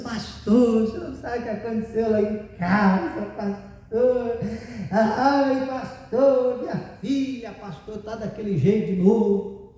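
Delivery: tearful pleading retelling, lightly acted; mock sobbing complaint; imitated crying. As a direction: play a distressed woman whimpering to her pastor. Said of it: "né, chorando".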